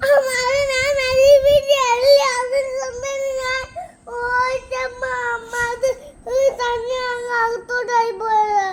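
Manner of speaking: loud tearful wail to mother; crying it out, sobbing through the words. Real, not acted. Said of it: "കരഞ്ഞതൊക്കെ കള്ളക്കരച്ചിലായിരുന്നോ".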